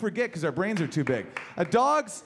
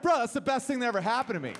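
excited dog voice; 4 semitones higher, faster than usual. Retold or imitated. Thrilled dog.

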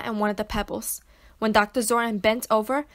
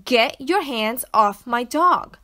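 repeated demand; 5 dB louder, slower than usual. Acted. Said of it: "I repeated".

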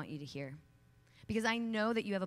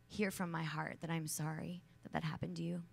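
whispered apology. Real, not acted. Speaker whispering her apology to hurting women in the audience. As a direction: breathe it out, tender and sorry.

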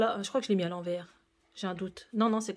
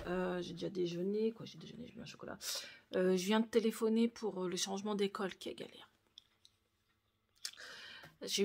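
hushed vlog talk; 3 semitones lower, 9 dB quieter than usual. Real, not acted. Speaks very softly throughout.

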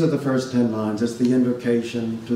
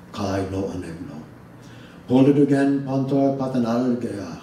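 measured recitation of ancient Greek verse, rhythm foremost; a poet reading the Odyssey's opening aloud in Greek; reciting Homeric Greek. Shown as a demonstration. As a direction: let the hexameter rhythm carry each line. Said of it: "I would recite the, um, opening lines of the Odyssey in Greek".

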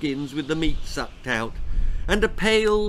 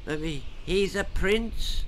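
put-on higher, hesitant old man croak; croaking old king; 5 semitones higher than usual. A narrator's reading. Frail king to his queen, croaking. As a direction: stammer like a doddering king. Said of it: "croaked the crumbling king".

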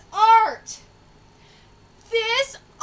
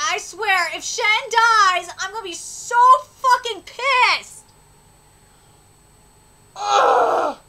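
frustrated; 4 dB louder, slower than usual. Real, not acted. Anger at game.

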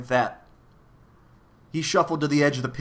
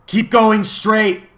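high, loud, slow command; loud urging; 10 semitones higher, 11 dB louder, much slower than usual. A narrator's reading. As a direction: call it out high and drawn out. The voice urges the travellers on.

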